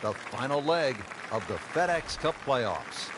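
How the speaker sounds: broadcast intro announcer. Acted. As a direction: announce it like a TV sports open. Game broadcast opening announcement.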